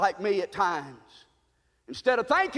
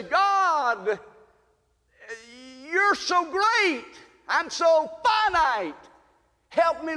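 pleading prayer; 4 semitones higher than usual. Retold or imitated. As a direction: pray it out, begging and humbled. Voicing a prayer to God.

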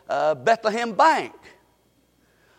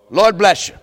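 gentle blessing; 3 semitones lower, 3 dB louder than usual. Shown as a demonstration. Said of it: "Say it with me".

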